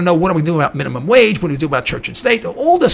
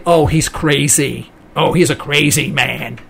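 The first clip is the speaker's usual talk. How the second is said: mock dismissive; 4 semitones lower, slower than usual. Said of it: "And then when they say".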